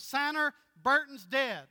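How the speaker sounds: lightly voiced Southern grandma; plain-spoken mamaw. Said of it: "he speaks plainly".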